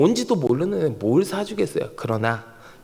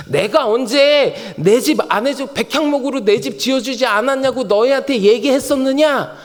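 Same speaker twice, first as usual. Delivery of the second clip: higher-pitched mock protest; protesting God; 5 semitones higher, 3 dB louder than usual. God asks when He requested a house, mock protest. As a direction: protest as if you never asked. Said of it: "하나님이요".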